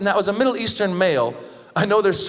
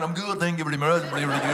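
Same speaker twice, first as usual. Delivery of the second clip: lightly mocked Swedish English; Swedish-accented reply; funny Swedish accent; 3 semitones lower, 4 dB quieter, faster than usual. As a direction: answer in a comic Swedish accent. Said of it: "You got a funny accent".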